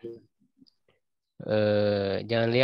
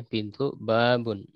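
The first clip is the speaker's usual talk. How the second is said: slow model word; slower than usual. Shown as a demonstration. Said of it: "Ya, babun ya".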